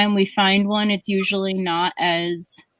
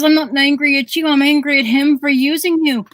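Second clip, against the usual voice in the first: raised, higher-pitched Irish brogue; Irish grandmother's brogue; 5 semitones higher, 4 dB louder than usual. Retold or imitated. Irish grandmother blaming grandpa to grandchild, high indignant brogue. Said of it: "That is a good Irish accent".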